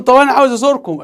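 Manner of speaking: hammed-up eager caller, high and loud; eager loud request. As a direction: say it up high and loud like shouting into the phone. Acting her request on the phone.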